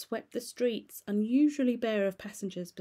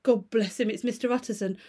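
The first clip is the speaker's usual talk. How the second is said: louder, higher relieved outburst; relieved cry; 3 semitones higher, 6 dB louder than usual. Acted. Cook greeting the lawyer, relieved louder cry. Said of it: "crying out".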